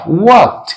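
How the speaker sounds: वॉक्ड as "walkt", released T at the end; final -ed as T. Shown as a demonstration. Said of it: "not walked".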